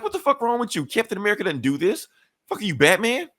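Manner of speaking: high panicked protest; panicked dealer. Retold or imitated. Dangled dealer protesting to hero, high panic. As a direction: squeal it while hanging in air.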